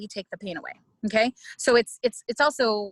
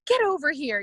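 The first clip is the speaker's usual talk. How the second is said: retold mad call; 5 semitones higher, 3 dB louder than usual. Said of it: "I was really mad".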